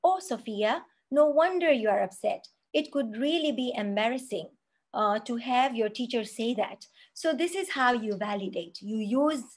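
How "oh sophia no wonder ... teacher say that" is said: validating sympathy. Shown as a demonstration. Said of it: "you could validate by saying".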